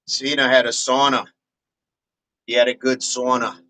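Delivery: light Australian accent; a loosely attempted Aussie accent; a hint of Aussie in the vowels. Shown as a demonstration. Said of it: "Might be a bit of my Aussie".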